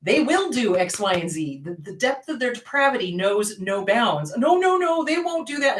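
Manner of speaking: emphatic, insistent reply; no-nonsense counsellor telling it straight; firm insistence. Retold or imitated. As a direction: set a doubting client straight firmly. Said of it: "I look at them and I go".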